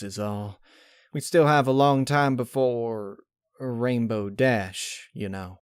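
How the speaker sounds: reassuring with a folksy twang; Applejack. Acted. Applejack reassuring Pinkie, lightly voiced southern mare.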